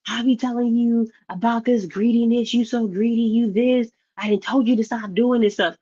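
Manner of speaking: a hint of a scolding wife; lightly voiced fed-up wife; nagging wife. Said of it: "she'd be like".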